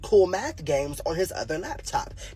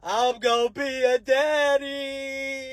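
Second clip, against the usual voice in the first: stunned; 5 semitones higher, slower than usual. Retold or imitated. Kid realizes he'll be a father.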